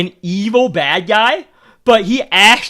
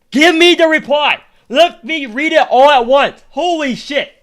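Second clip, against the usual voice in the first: impatient outburst; 8 semitones higher, 5 dB louder than usual. Real, not acted. Impatient with game dialogue delay.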